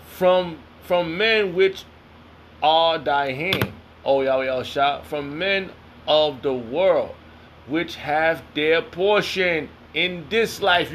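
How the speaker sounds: slow, deliberate scripture recitation; scripture reading. Acted. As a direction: draw out every word of the verse. Reads scripture aloud.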